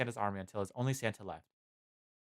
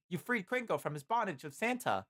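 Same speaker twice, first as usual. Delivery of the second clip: high victorious proclamation; excited shout; 8 semitones higher than usual. A narrator's reading. Jack hails the one who beat Santa, shouting. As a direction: proclaim it high, like a rallying cry. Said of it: "Jack shouts".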